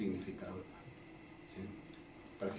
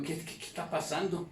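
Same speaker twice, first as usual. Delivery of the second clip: higher-pitched mock bewilderment; perplejos imitados; 5 semitones higher than usual. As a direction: act out a puzzled onlooker. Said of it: "Y perplejos, como diciendo". (perplejidad imitada, en tono más agudo)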